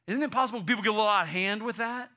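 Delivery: high, loud pushback; alarmed objection. Acted. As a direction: interrupt as a worried objector. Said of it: "You, you should be like".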